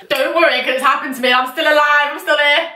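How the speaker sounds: rally them, building as you go; emphatic reassurance. Real, not acted. Telling listeners the biggest fear is survivable, emphatic reassurance.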